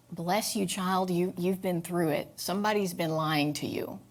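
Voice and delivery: put-on soft, tender reassurance to a scared child; comforting. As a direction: soothe her gently. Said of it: "I just love on that scared little Becky".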